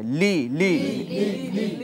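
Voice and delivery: short crisp লি লি, no stretch; quick short লি. Shown as a demonstration. Teacher shows kasra said quickly, short লি. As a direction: say লি fast and clipped short. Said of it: "তাড়াতাড়ি করতে হয়".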